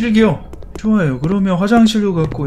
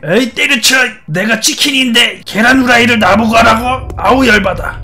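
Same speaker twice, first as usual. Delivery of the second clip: playful, slightly raised grumbling outburst; mock angry chicken; 3 semitones higher than usual. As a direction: voice Chica fed up with kitchen duty. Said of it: "뭐 이렇게 화가 났어?". (화난 치킨 흉내로 투덜대며)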